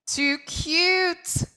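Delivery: high eagle call. A narrator's reading. Eagle calling to Quokka, high. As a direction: call it out like a bird. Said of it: "called Eagle".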